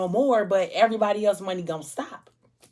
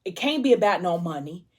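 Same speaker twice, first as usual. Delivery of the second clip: bewildered protest. Retold or imitated. Ethic confronts gunman.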